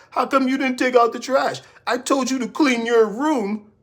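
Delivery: high scolding mother about chores; nagging mama. Retold or imitated. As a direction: nag like a mom about the trash. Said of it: "his mama asking him to take out the trash".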